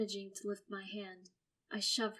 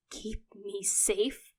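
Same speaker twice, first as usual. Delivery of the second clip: slow, whispered disbelief; whispered question; 4 dB louder, much slower than usual. Acted. Son questioning what his sister heard, whispered. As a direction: breathe the words out in doubt. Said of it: "I question".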